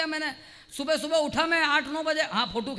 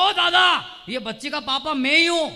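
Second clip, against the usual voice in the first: loud retort; 7 dB louder than usual. Retold or imitated. Retort to scolding old man.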